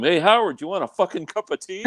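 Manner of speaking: high-pitched imitation of mom calling downstairs; mom hollering. Son imitating mom hollering to dad from upstairs, high-pitched holler. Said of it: "she hollers down to him".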